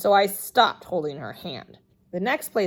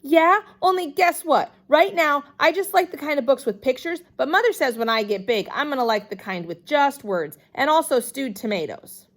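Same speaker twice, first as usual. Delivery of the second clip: still excited; 7 semitones higher, 4 dB louder than usual. A narrator's reading. Ignoring the librarian's quiet request.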